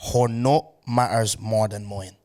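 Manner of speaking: reading the meme. Shown as a demonstration. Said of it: "I just read out a meme".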